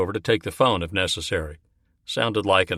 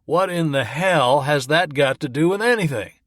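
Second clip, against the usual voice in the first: outburst in a higher, different voice; exploding; 7 semitones higher, 3 dB louder than usual. Acted. Morris blows up at Lewis over the dead, exploding. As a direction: blow up at him.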